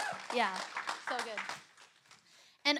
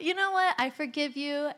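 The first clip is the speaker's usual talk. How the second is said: high, loud, laughter still in the voice; amused forgiveness; 4 semitones higher, 6 dB louder than usual. Retold or imitated. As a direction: retell forgiving him while tickled by it. Laughing at the torn-paper confession.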